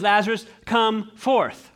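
"forth" slow and falling, commanding; stress on forth. Shown as a demonstration. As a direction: land firmly on "forth". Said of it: "He just says".

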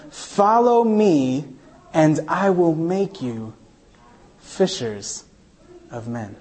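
slow, fading reading of the verse; solemn scripture reading. Acted. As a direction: reverent read dropping to a hush. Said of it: "The Bible says".

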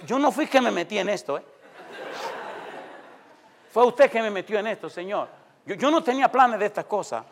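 arguing with God. Retold or imitated. Young preacher quarrels with God, retold indignant protest. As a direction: complain upward, half in jest. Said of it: "empecé a pelearle a Dios".

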